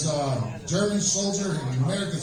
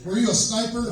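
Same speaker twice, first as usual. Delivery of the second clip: raised-pitch question across a distance; called-out question; 7 semitones higher than usual. Acted. American soldier questioning the German across the river, calling out. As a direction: pitch it up, asking someone far off.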